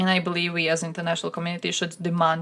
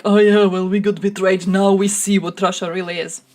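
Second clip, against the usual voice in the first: imitating official; 6 dB louder than usual. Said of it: "interview where he was like".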